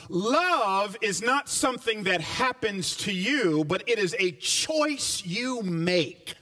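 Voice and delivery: slow, deliberate preaching; preaching cadence. Acted. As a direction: press each choose home. Preaching refrain.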